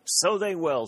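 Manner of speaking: high-pitched, eager reply; excited agreement. A narrator's reading. Warner answers his shouting comrade during the charge, excited.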